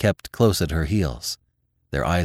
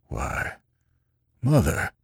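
gasped; 2 semitones lower, 4 dB quieter, slower than usual. A narrator's reading. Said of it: "the old man gasped".

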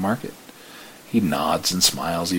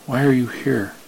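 higher, louder odd voice for the stranger; mysterious old man; 6 semitones higher, 6 dB louder than usual. Acted. The strange old man asks the driver why he is here. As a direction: ask it like an uncanny elder.

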